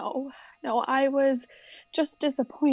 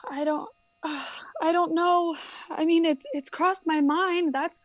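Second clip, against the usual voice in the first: close to tears. Acted. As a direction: let the doubt break through with a sigh. Hannah admits divorce thoughts.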